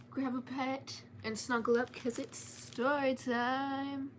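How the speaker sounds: slow, cozy invitation to snuggle up; slow story-time welcome. Acted. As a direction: draw the kids in, slowly. Story time intro to viewers.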